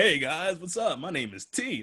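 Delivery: put-on friendly greeting. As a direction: introduce yourself in an overly sociable voice. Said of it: "I'm not gonna be like".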